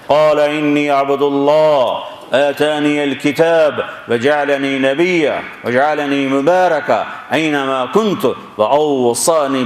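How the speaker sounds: slow, resonant recitation filling the whole town; booming echoing voice. Acted. Infant Isa answers the angry crowd, booming like a loudspeaker. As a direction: intone it as if through a loudspeaker. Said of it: "آواز ایسے گونجی جیسے میں speaker میں گونج رہا ہوں".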